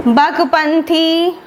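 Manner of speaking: each syllable drawn out for notes; slow dictation. Shown as a demonstration. Teacher dictating festival names to students, slow and deliberate. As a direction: say it slowly so students can write it.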